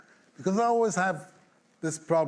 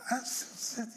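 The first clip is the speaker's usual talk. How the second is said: laughing; 9 semitones higher, 6 dB quieter than usual. Real, not acted.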